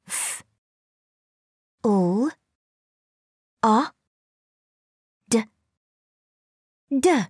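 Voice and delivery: F, U, A, D, D said as separate sounds; sounding out words. Shown as a demonstration. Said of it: "Blend the sounds".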